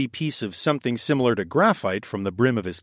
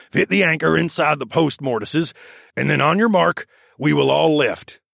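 higher bossy raccoon foreman; raccoon architect voice; 4 semitones higher, 4 dB louder than usual. Acted. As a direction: direct the crew like a brisk little foreman. The speaker voiced as a character.

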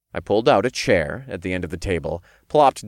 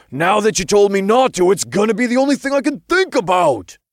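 loud, high-pitched imp whine; whining; 13 semitones higher, 6 dB louder than usual. A narrator's reading. Imp complains about being told not to, whining. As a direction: wail in exasperated protest. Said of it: "the imp whined as he threw back his head".

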